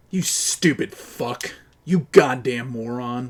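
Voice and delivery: each word spat out slowly; slow angry insult. Real, not acted. Gamer cursing a teammate's own goal, slow and furious. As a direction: drag out the insult in disgust.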